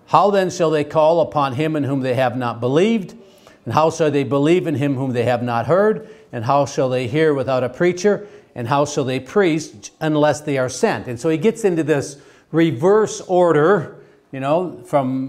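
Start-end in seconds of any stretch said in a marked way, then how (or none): 0.1-11.1 steady, measured Bible reading to the class; scripture reading. Acted. Teacher reading Romans aloud to the class, measured. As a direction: read the verses out evenly to the class.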